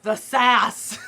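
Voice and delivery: slow, drawn-out exclamation of glee; gleeful fangirl cry; delighted sass reaction. Real, not acted. Reacting to Alec's sassy line.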